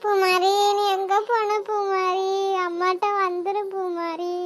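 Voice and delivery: put-on a mother mourning her drowned child; grieving mother. Mother refuses to leave, weeping.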